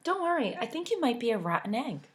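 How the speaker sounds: Milk teasing Egg; mock comfort. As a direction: fake reassurance with a jab. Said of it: "Milk said".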